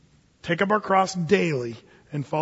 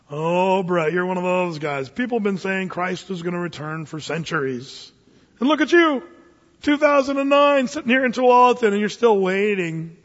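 mocking skeptic. Skeptic voiced mocking preacher.

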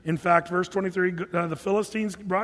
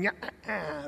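soft mock devilish cackle; cartoon devil cackle; 8 dB quieter than usual. Preacher mimicking a little red cartoon devil, mock cackle. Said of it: "little red dude running around with a pitchfork and a goatee going".

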